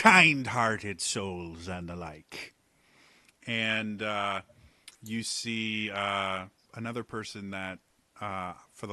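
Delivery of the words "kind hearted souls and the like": overjoyed stranger. Acted. Cheery stranger continues.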